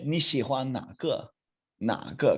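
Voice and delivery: 哪 in 哪个 held in a dipping tone; third tone. Shown as a demonstration. Teacher asking class to hear it, dipping third tone on 哪. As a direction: let 哪 dip, then lead into 个. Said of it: "third tone there".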